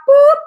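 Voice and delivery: loud little "boop"; playful boop noise. Shown as a demonstration. Host miming opening the juice can, playful boop. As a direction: pop out a boop sound effect. Imitating popping a can top.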